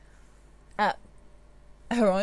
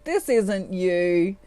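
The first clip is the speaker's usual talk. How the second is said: laughing, teasing. Retold or imitated. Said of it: "Divine Masculine's kind of laughing, going".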